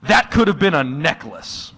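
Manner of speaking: high, slow incredulous gasp of a question; mock-appalled partner; shocked disbelief. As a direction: play the horrified partner. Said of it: "And then Haley said".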